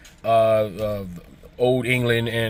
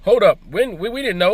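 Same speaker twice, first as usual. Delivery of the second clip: mock surprise; 5 semitones higher than usual. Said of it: "And we were like".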